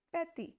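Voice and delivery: "petit" with a soft t and no final t; "petit" modelled for learners; French petit. Shown as a demonstration. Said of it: "T has very soft sound".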